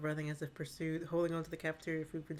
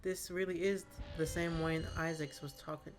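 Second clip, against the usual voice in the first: story narration. A narrator's reading. GM scene narration.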